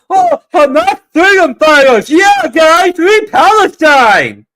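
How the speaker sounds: high, full-volume mock chant; mocking scream. Streamer imitating screaming protesters, mocking high-pitched shout. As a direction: shout it like a hammed-up zealot, stretching the end. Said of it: "gonna scream and shout".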